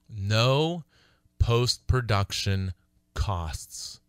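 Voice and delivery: slow, weighty reading of "No post-production costs"; reading the bold heading. Shown as a demonstration. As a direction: lean on each word of "No post-production costs". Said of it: "All capital letters in bold type".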